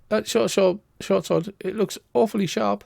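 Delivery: nervously steering talk away from the sword; wary seer. Acted. Seer nervously warning Edgar about his sword, uneasy.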